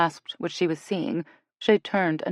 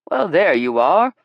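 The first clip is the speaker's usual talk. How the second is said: smiling, a bit louder and slower; pleased, slowed-down smiling hello; with a smile; 8 dB louder, slower than usual. Acted. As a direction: greet her with a smile in the voice. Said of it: "he said with a smile".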